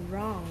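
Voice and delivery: wrong said with no w sound, starting straight on r; wrong pronounced with a silent w. Shown as a demonstration. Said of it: "Chữ R là không âm nhá".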